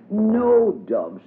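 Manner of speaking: high little girl's voice, playing hostess; child voice for Diddy. A narrator's reading. Diddy greets her playmate at the door, high childlike voice. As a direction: lift into a small girl's prim voice.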